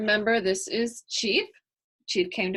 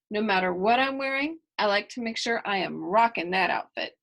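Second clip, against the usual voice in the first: lively storybook reading voice; reading to children. A narrator's reading. Reader voicing Kylie's story for young listeners, lively storybook reading. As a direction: read it to the kids with bright energy.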